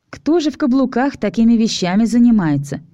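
mock her heels with a sneer; snide. Alisa mocking the vampire rescuer, snide. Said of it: "ехидный голосок Алисы".

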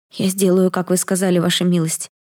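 a scared maid squeaking her promise; squeaky reply. Acted. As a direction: squeak it out to his lordship. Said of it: "пискнула служанка".

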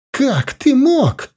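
high, slow, breaking into a shout; breaking into a cry. Acted. Mother shouting at her son in despair. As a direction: let the question tear out of her as a cry. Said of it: "сорвалась она на крик".

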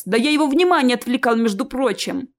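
quick, offended self-defence. Acted. Ches says he was distracting the troll, offended. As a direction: defend yourself, mildly affronted. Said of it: "обиделся Чес".

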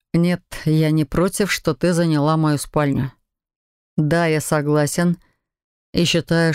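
calm, reasonable husband, understated; measured husband. Acted. Husband grants his wife the bedroom, calmly.

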